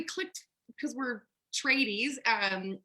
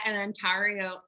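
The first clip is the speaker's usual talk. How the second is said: Ontario in a slight Colorado accent; 2 semitones lower than usual. Real, not acted. Host slips on the Canadian place name, Colorado accent. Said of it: "that's my Colorado accent coming out".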